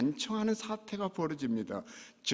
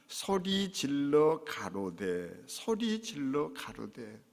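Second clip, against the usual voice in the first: slow scripture reading; much slower than usual. Acted. Scripture read slowly.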